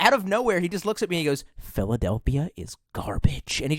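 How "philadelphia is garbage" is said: put-on, very low, deep-seated loathing. Retelling a remark someone made out of nowhere: imitating deep-down hatred. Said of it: "said it with, like, such, such deep down hatred".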